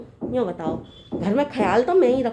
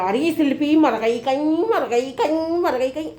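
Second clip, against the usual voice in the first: mock screeching; slower than usual. Daughter-in-law mimicking mother-in-law's shouting, mock screeching. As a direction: mimic someone's repeated wailing call. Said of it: "अर्रा अर्रा के चीख चीख के चिल्ला चिल्ला के बोला".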